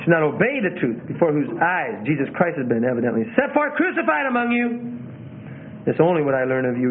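overdone emphasis on the wrong phrases; stilted scripture reading with emotion that doesn't fit; unnatural reading. Shown as a demonstration. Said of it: "I'm trying to do this unnaturally".

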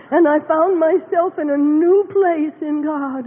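overwhelmed with joy; slow tearful declaration. Real, not acted. Emotional climax of testimony.

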